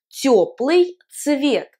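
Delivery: тёплый цвет said slowly, each sound clear; careful pronunciation. Shown as a demonstration. Teacher to class, slow clear model.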